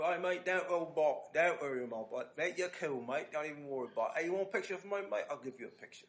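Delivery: imitating British accent. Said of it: "that accent".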